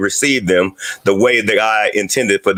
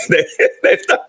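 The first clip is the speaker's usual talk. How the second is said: much higher, laughing through the words; 14 semitones higher than usual. Real, not acted. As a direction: break into a laugh as you talk. Laughs at own joke mid-sentence.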